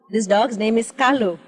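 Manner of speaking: ordinary talk, nothing marked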